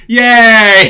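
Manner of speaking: high, loud kiddie Yay; delayed kids' cheer. Retold or imitated. Retelling the nativity, child cheering late, high and loud. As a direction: cheer like a small child in a school play. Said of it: "two little kids that are going".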